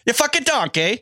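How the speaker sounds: high mock chef insult; copying the chef impression. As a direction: echo the friend's impression, laughing along. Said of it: "You f-, yeah".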